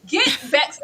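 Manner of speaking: teasing, exasperated scolding; mock scolding. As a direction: scold her like an exasperated friend. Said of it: "It's like".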